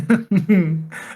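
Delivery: odd little giggle; real, weird little laugh. Real, not acted. Podcaster breaking off a question to co-host, weird laugh. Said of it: "Don't make that weird laugh".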